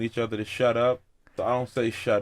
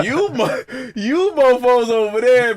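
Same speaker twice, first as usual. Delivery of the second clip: high, slow mocking voice; 10 semitones higher, 7 dB louder than usual. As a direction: put on a high jeering voice to tease.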